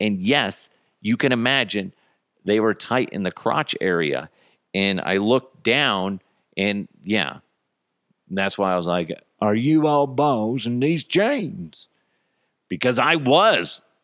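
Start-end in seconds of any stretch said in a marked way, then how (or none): 9.4-11.9 put-on Wild West cowboy accent. Speaker retelling looking down at too-tight jeans his wife bought, cowboy voice. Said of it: "do a cowboy voice".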